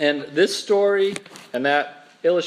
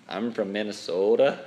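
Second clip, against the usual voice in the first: lower, mock Minnesota accent; strong Minnesota accent; 5 semitones lower than usual. Preacher imitating folks back home, strong Minnesota accent. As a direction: put on a Minnesota accent with long O. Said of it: "They've got a real strong accent".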